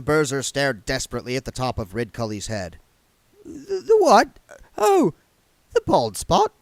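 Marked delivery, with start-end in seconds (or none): 3.4-6.5 high, flustered stammer; panicky. Acted. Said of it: "Close to panic".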